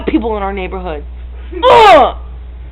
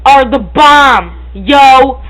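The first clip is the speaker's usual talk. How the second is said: loud, slow, emphatic hype; hyped; 2 semitones higher, 4 dB louder, slower than usual. Real, not acted. Girl hyping peanut butter balls loudly. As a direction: proclaim it like a rapper.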